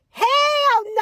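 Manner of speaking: high, loud outraged yell; a kid blurting out in anger. Retold or imitated. Daughter finding her burger wrong, yelling out high and loud. Child's outburst in the car.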